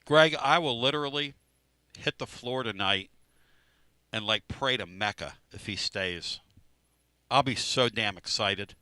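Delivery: talking through a mouthful of food; words round a bite of food; mouth full. Real, not acted. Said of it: "I said that with a mouthful of food".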